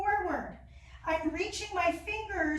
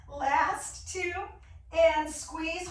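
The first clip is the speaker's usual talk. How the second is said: strained cue mid-crunch; doing sit-ups; 2 semitones higher, 3 dB louder, much slower than usual. Real, not acted. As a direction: push through the squeeze. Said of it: "Oh my gosh, my abs on fire".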